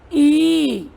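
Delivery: ई held long and steady; long ee vowel. Shown as a demonstration. Teacher introduces the big vowel, ई held long. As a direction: stretch ई into a sustained 'ee'. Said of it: "इसे बोलते बड़ी ई".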